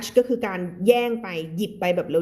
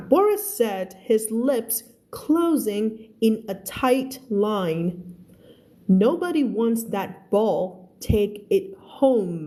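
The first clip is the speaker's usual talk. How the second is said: careful, deliberate English story reading; spaced-out teacher's narration; slow model reading; much slower than usual. Acted. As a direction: read slowly for learners, enunciating each word. Teacher reads story aloud.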